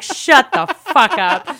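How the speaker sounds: slow, loud, high mock yell; hammed-up indignant shout; exasperated outburst. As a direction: tell them off with drawn-out emphasis. Retold snapping at waiters.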